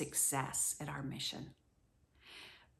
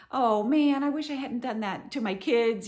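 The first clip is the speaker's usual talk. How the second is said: mock regret; 4 semitones higher, 5 dB louder than usual. Regretful parent self-quote.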